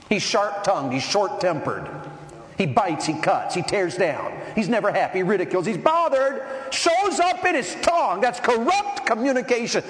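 rising to a loud, high preaching cry; building preaching shout. Real, not acted. Preacher building to a shout listing a harsh man's sins. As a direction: build it until you are shouting.

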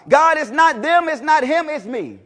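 normal talking voice

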